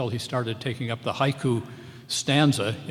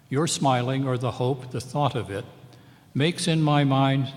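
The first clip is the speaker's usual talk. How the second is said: poem reading; 3 semitones higher, 5 dB louder than usual. Acted. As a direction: read the poem aloud, lingering on the stresses.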